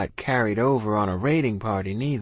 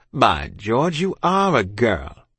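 slow British realisation; astonished officer; 3 dB louder, slower than usual. A narrator's reading. Officer peering at child, slowly astonished. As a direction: draw it out in mild amazement.

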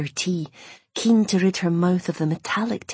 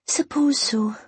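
whispering; 8 semitones higher, slower than usual. Acted. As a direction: breathe it out, barely voiced. Quiet reluctant reply.

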